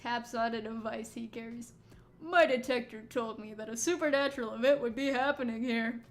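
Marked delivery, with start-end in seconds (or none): 2.2-6.0 lightly voiced game character; improvised character voice. Streamer voicing a detector owner, improvised voice. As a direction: try out a makeshift voice for him. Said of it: "I don't know what this voice is".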